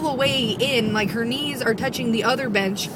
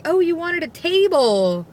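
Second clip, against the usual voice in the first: retold dim-witted realisation; mock cluelessness; 5 semitones higher than usual. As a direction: imitate a clueless hostess catching on. Retelling a clueless hostess's reply.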